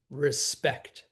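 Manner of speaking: re-SPECT, weight on SPECT; stress on last syllable. Shown as a demonstration. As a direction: land "Respect" on its second syllable. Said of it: "With the stress on the last syllable".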